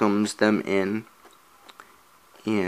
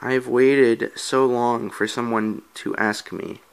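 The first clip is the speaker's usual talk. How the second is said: lightly voiced ghost girl; 2 semitones higher than usual. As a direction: accept the dance, lightly girlish. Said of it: "And then she says".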